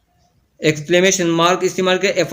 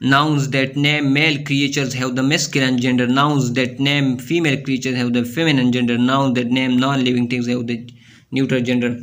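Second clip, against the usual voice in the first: slow, careful read-aloud of the rule; slow textbook reading; 2 semitones lower, much slower than usual. Acted. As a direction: spell the rule out slowly for students. Reads textbook rule slowly. (धीमी किताबी पढ़ाई)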